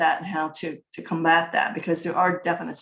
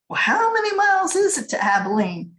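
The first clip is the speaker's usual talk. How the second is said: family member asking; 11 semitones higher, 4 dB louder than usual. Retold or imitated. Family planning the trip.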